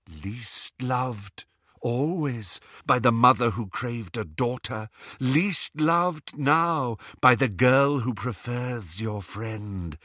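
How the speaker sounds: measured, lightly sinister taunt; taunting Horcrux voice. Acted. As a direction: drag out the cruel words, stretching the last ones.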